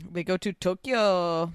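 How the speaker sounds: Tokyo drawn out in an odd accent; odd put-on accent. Real, not acted. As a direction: stretch TOKYO slowly in an accidental accent. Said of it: "I said it in that accent".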